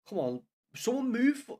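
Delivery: will the players to move, shouting; urging shout. Real, not acted.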